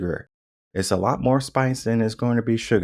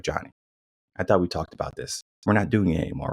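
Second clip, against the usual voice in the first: calm parent; 3 semitones lower, faster than usual. Retold or imitated. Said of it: "two different ways to speak".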